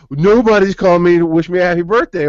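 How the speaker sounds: high, whiny mock-sob of the upset friend; hammed-up tearful whine; imitating crying friend. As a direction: play her wailing that nobody called. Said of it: "she started crying".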